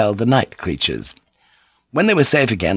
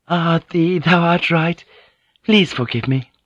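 higher woman's voice, lightened; anger gone, amused; 8 semitones higher than usual. A narrator's reading. Mariko admits he is right and apologizes, lightened. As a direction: let the anger go and concede. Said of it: "Mariko's anger vanished, and she laughed".

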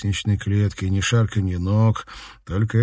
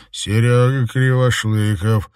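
double voice; 3 semitones higher, 5 dB louder than usual. Acted. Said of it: "ответил тип двумя голосами".

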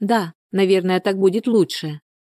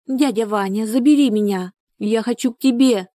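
nightmare moaning; 5 semitones higher than usual. Acted. Lyuba pleads in her dream.

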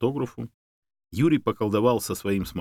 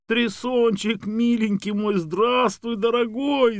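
high, wailing joyful greeting; Tamara Isaevna; 13 semitones higher, 4 dB louder, slower than usual. A narrator's reading. Woman greeting her lost dog on screen, wailing with joy. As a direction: gush in a very high voice over a beloved dog. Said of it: "заголосила Тамара Исаевна".

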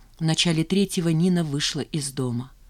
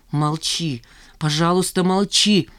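hateful; slower than usual. Acted. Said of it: "с ненавистью выдохнула она".

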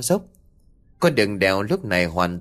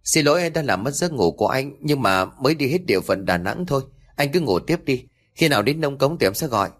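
gentle apology; 5 semitones higher than usual. Acted. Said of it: "anh Huy nhẹ nhàng nói".

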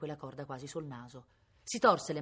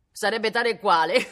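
loud, high jeer breaking into laughter; acted laughing; 6 semitones higher, 13 dB louder than usual. Villagers joking that the brigand makes no difference, laughing. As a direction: crack up on your own joke.

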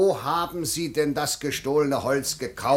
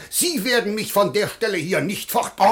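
defiant; 5 semitones higher, 4 dB louder than usual. Acted. Official defies his critic.

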